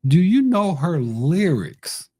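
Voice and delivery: "you" stressed high, question stretched slow; drawn-out challenge. Retold or imitated. Host retells pressing a dad about lyrics, drawn-out challenge. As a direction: lift the pitch and lean on "you".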